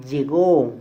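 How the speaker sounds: "Llegó" with a loud, stretched GÓ; final-syllable stress. Shown as a demonstration. Teacher demonstrates the strong syllable, loud stress on GÓ in "Llegó". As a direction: punch and hold the "gó" of "Llegó". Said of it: "mayor fuerza de voz".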